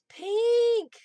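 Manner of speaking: high, loud happy shout of the word; a burst of glee at the color; excited cry. Real, not acted. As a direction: call it out with delight. Reading a viewer's favorite color again.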